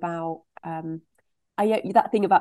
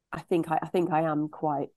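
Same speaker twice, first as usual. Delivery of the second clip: talking with snot dripping; runny nose. Real, not acted. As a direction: speak through a runny nose. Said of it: "I've got snot dripping from my nose".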